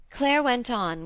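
plain reading voice

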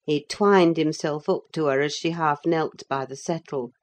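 plain reading voice

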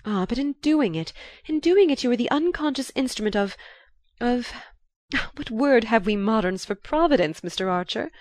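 high-pitched, searching for the grand word; excited cry. A narrator's reading. Marchioness crying out to Archer as she hunts for a word, excited. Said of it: "cried the lady".

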